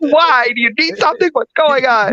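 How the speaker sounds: high, bright, overeager questions; retelling an eager offer to help a stranger. Retold or imitated. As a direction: sound thrilled to be asked. Retold eager reply to stranger.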